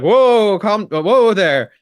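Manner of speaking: slow a startled horse down; calming a horse. Acted. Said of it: "like, you do with the horse".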